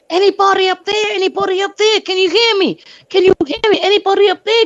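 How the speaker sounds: high, loud calls up the stairs; shouting up. Retold or imitated. Neighbor shouting up through the smoke, loud and urgent. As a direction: call out loud to anyone upstairs. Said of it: "I'm screaming out in the open".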